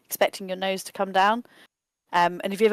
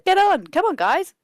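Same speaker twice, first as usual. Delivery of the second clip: much higher and louder, calling out eagerly; excited call; 10 semitones higher, 8 dB louder than usual. Acted. Gnome on horseback calling the others to climb on, excited and loud. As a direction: call the friends over, thrilled.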